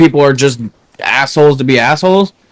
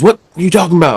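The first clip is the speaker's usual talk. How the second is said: higher-pitched, mildly heated comeback; retold irritated coworker; 6 semitones higher, much faster than usual. Coworker brushing off a check-in, mildly irritated imitation. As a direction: imitate an annoyed coworker without yelling. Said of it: "he's yelling at me like".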